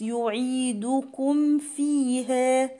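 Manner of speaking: "يعيدكم" with well-rounded u vowels, slowly chanted; full damma. Shown as a demonstration. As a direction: round every u in "يعيدكم" fully. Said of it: "أضم كويس".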